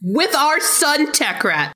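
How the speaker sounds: talking through a mouthful of taco; words muffled round a bite; mouth full. Real, not acted. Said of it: "Sorry, I had a taco in my mouth".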